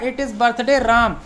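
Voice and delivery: very slow, careful teacher reading; slow model sentence. Shown as a demonstration. Teacher reads the example sentence slowly to students. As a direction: spell it out word by word. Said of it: "ये पहला तरीका है".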